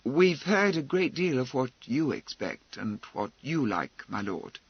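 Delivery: even, controlled objection; level tone. Acted. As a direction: keep it level and measured. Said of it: "said in his level tone".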